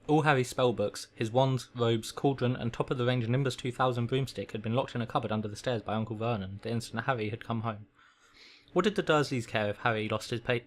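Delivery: measured read-aloud storytelling; story narration. A narrator's reading. Reading a requested story to a listener, story narration. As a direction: read it like a bedtime audiobook.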